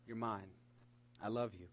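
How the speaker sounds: low, hushed declaration; imitated divine whisper. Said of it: "he whispered to us through the universe".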